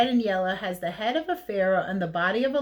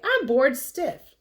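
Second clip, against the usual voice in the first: bored mummy; 6 semitones higher, 4 dB louder, slower than usual. Acted. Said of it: "said a mummy one day".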